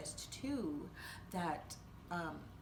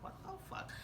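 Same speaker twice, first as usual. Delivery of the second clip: shocked whisper; 6 dB quieter, faster than usual. Retold or imitated. Shocked after creepy meditation.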